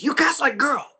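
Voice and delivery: high taunting voice, mimicking the bully; mocking bully. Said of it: "He goes".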